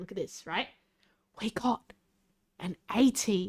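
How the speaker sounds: whispering. Rolling dice during a joke asmr bit, whispering. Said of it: "I'll whisper it quietly".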